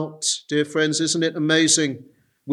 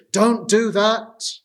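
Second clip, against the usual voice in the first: raised, scoffing voices of friends who jeer; mocking friends; 4 semitones higher than usual. Preacher voicing friends who mock his faith, scoffing and raised. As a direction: scoff at him like doubting friends. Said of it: "even people close to me".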